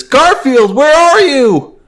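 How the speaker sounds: loud, high falsetto calling out; comic owner hollering for his cat; John. Acted. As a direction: call out slowly in a high cartoon voice. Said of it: "And then John says".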